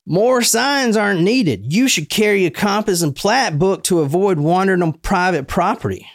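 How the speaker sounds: a stern Southern hick telling him off; hick Southern accent. Acted. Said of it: "hick Southern accent".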